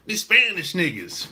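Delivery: lightly mimicked casual New York talk; imitating New York talk. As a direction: quote their casual way of talking, lightly. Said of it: "now they talk like this".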